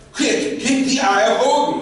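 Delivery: high, loud panicky command; hammed-up frantic order; urgent shouted order. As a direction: shout it to your comrade in a rush. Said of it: "He's like".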